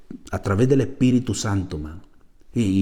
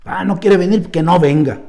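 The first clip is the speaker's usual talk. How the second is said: dismissive shrug; 4 semitones higher than usual. Retold or imitated. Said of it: "así piensa uno".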